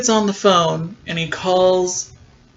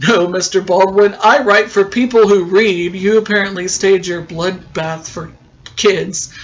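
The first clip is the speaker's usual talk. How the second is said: louder, lofty mock scolding of the villain; haughty retort; 3 dB louder than usual. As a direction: put him firmly in his place, a bit loud. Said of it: "And she goes".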